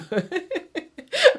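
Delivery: high, real giggle; high peal of amused laughter. Real, not acted. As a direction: giggle at your own wording. Amused at her own wording.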